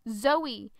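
name called out loud across a room; yelled name. Retold or imitated. Rob calling Zoe across the kitchen, shouting. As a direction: shout the name to get her attention. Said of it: "being yelled across the room".

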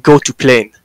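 put-on curt line in a light Russian accent. Russian passenger answering the check-in agent, in a Russian accent. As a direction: imitate a Russian traveler's accent. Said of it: "with a Russian accent".

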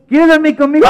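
high, loud coaxing question; eager invitation. Acted. Mateo inviting baby brother to bed, high and eager. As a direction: ask the baby excitedly.

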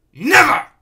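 very high, loud cries; screaming. A narrator's reading. Fighters shouting across the duel, screaming. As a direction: scream it out in defiance. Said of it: "he screamed".

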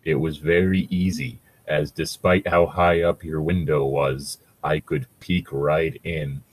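slow, deep ancient Ent; ancient tree voice. Acted. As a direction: rumble it like an old tree.

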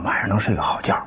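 usual speaking voice

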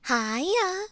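ordinary delivery

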